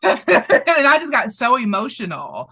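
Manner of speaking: real laugh through the words; laughing while telling. Real, not acted. Telling her co-host about crying, laughing. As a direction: chuckle it out, a bit moved.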